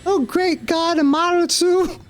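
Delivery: hammed-up worship; a hint of awe; awed exclamation. Calling the goddess.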